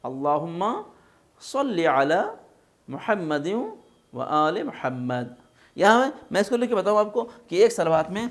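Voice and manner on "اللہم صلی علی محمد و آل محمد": phrase by phrase, heavy saad in "صلی"; careful salawat recitation. Shown as a demonstration. Teacher offering the salawat properly, measured recitation. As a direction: pause after each phrase, "صلی" as "sawlli". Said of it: "اچھے طریقے سے".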